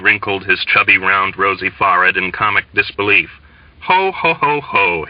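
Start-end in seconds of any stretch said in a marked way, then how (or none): 3.8-5.1 hearty read-out ho ho ho; jolly laughing ho ho; a lightly voiced hearty laugh; mock laugh ho ho. A narrator's reading. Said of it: "he laughed".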